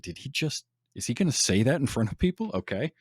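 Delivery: mock aghast aside; incredulous look. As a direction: voice the two guys' shocked glance, lightly. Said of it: "they give each other the look".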